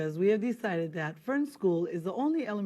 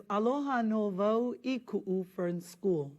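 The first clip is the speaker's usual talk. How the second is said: slow reading. Shown as a demonstration. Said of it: "The first line says".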